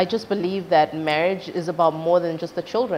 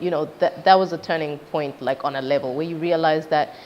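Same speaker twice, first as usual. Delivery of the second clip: ordinary talk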